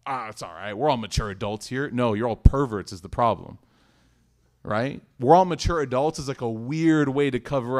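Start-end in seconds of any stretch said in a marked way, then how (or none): 0.1-1.9 a lightly mocking, breezy shrug of a quote; mock nonchalance. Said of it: "Don't try to play it cool". 5.2-6.2 "We're all mature adults" said louder, lifted up on "all" to expose it; pointed mock quote. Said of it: "Don't try to play it cool".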